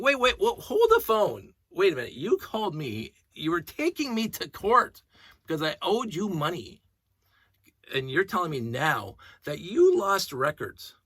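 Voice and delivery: loud, high outraged protest, slowing on the key lines; angry customer yelling down the phone at the rep; indignant yell. Retold or imitated. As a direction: shout it in sheer disbelief.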